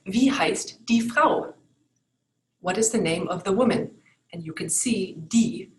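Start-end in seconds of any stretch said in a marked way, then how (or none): 0.1-1.5 slow, clear Wie heißt die Frau; careful German. Shown as a demonstration. Teacher modeling the question about the woman, slow. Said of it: "So you could ask".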